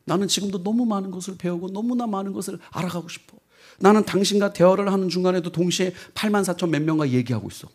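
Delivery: soft, hushed tender explanation; a lightly voiced loving AI letting him down; gentle farewell. Samantha gently explains to Tim why she leaves. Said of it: "사만다가 뭐라 하냐면".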